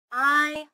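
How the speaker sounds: "T-I-M" as three isolated sounds. Shown as a demonstration. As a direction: sound out "T-I-M", pausing between sounds. Teacher sounds out a word.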